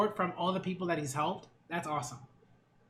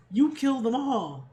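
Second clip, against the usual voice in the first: unhinged accusation; 4 semitones higher than usual. Acted. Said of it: "Out of her mind".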